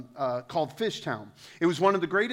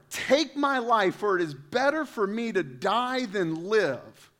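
melodramatic despair; 4 semitones higher, slower than usual. Acted. Jonah's despairing plea.

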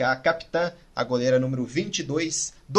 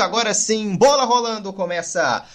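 excited; 5 semitones higher than usual. Real, not acted. Kick-off call in live broadcast.

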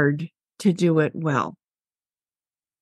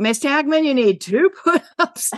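put-on 1 kid voice; 7 semitones higher than usual. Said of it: "I would say".

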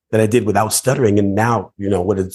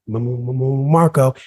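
stuttering; 3 semitones higher, slower than usual. Retold or imitated. Ten-year-old stuck calling Marco in the pool, stuttering. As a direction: stutter on the M, then burst out Marco. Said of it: "and I start to stutter".

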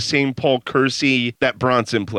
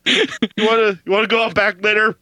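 mock cheery dad; 5 semitones higher than usual. To his pal, mocking the happy movie family in a cheery dad voice. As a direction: ham up the too-happy father.

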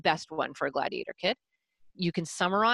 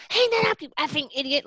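loud, higher snap; harsh imagined shout; 7 semitones higher, 3 dB louder than usual. Shown as a demonstration. Coach showing how the boy hears a gentle request, loud and harsh. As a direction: bark it as he hears it. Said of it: "he hears".

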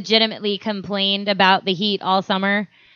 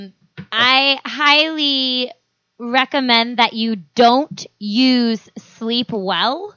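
slow, deliberate warning; slow emphatic warning; much slower than usual. Real, not acted. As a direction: spell it out slowly. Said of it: "Because you will not?".

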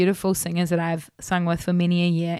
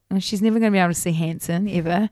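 put-on teen despair; faster than usual. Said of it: "the fourteen-year-old Kate thought".

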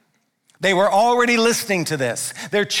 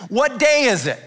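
calling out; 5 semitones higher than usual. Real, not acted. Preacher calls out to congregation.

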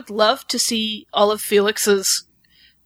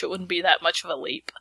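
whispered aside; 4 semitones lower, 7 dB quieter than usual. Real, not acted. Aside musing about Felix.

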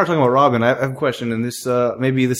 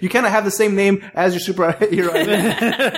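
incredulous; 6 semitones higher than usual. Real, not acted. Incredulous rant about Robin's name.

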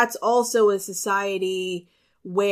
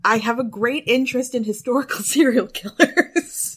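sheepish laugh; 4 semitones higher, 4 dB louder than usual. Real, not acted. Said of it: "You were very excited about that".

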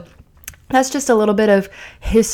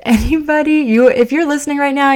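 laughing aside; 7 semitones higher, 4 dB louder than usual. Real, not acted. Laughing aside to podcast listeners.

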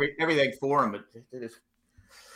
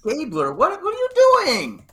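cranky dad; 9 semitones higher than usual. Acted. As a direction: scold like a cranky teenager's dad. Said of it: "that's a cranky t-, teenager's dad".

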